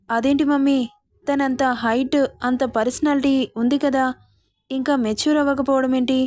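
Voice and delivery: a son baffled, asking his mother; confused. Acted. Son puzzled, asking mother why his wife isn't mature. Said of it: "అని అయోమయంగా అడుగుతుంటే".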